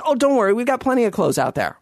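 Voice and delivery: breezy, lightly voiced daughter; retold daughter's line. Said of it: "she says".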